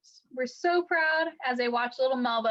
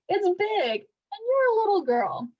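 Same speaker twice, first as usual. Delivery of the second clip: frowning mother; 7 semitones higher, 3 dB louder than usual. A narrator's reading. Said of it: "Mama Lucille frowned".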